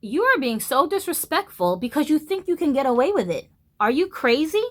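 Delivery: high, rising outraged voice; retold furious inner voice; inner fury. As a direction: let the outrage climb. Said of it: "I felt like".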